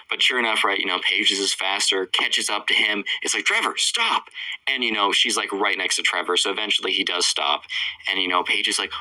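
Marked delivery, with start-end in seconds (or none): 3.4-4.3 calling out. Retold or imitated. Chaser calls to fleeing boy.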